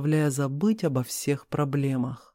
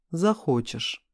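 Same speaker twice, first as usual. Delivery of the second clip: ordinary delivery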